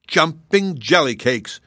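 high loud slow shriek; scream. A narrator's reading. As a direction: shriek the oath in fury. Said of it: "screamed the king".

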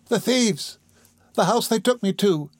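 put-on high, hushed frightened boy; whispered dread. A narrator's reading. Oliver recognises the thieves' house, in hushed fear. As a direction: shrink from it, without raising the voice. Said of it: "whispered Oliver".

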